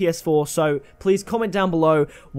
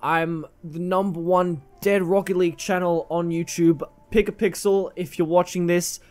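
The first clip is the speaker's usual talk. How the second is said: put-on Linkuru accent. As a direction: imitate a creator with an uncertain, vaguely Australian accent. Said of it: "what is my accent right now?".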